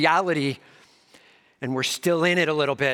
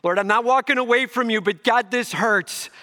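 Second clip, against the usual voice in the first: pained prayer; 8 semitones higher, 4 dB louder than usual. Pretend. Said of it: "Not trusting and not hoping is wrong".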